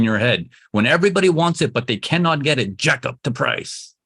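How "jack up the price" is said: softer, stretched jack up the price, stress on jack; knowing sly tone. Shown as a demonstration. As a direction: say it like the seller's secret plan. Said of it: "You gotta get this tone in your head".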